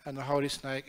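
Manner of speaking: usual speaking voice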